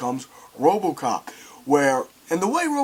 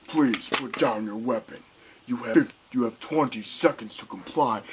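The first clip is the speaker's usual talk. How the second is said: robot warning; 6 semitones lower, 5 dB quieter than usual. Retold or imitated.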